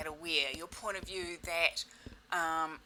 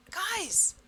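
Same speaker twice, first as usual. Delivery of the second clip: louder; 12 semitones higher, 6 dB louder than usual. Retold or imitated. Addressing kids after yelling.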